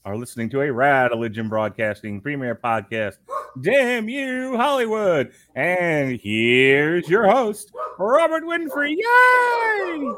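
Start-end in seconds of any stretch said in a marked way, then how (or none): 3.6-9.0 slow, high booming announcer; ringmaster. Acted. Announcing show title and host. 9.0-10.1 high shouted cheer. Acted. Cheering for the host.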